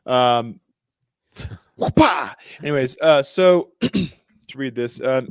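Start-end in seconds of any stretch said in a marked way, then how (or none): 1.8-2.3 high, loud "whoopah"; playful burst, like landing a smack; mock whip-crack shout. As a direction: shout a cartoonish whoop-pah. Mimics an ass whooping.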